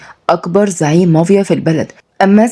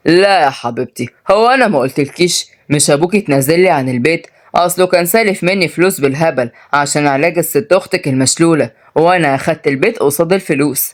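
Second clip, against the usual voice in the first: domineering uncle, dismissive; 2 semitones lower than usual. Acted. Uncle claims the house over debts, dismissive.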